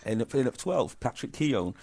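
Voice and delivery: upbeat radio countdown announcer; chart show countdown. Pretend. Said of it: "do a top of the pop style".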